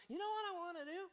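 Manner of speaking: high, loud party shout; excited drunk king. Acted. Drunk king Xerxes announcing another party, high excited shout. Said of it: "Xerxes looks around and he goes".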